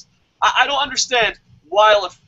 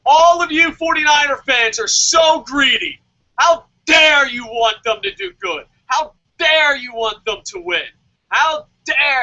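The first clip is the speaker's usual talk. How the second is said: shouting at the crowd, fake outrage; mock angry rant; 3 semitones higher, 4 dB louder than usual. Mock fan at Candlestick shouting at other fans, furious. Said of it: "you're like".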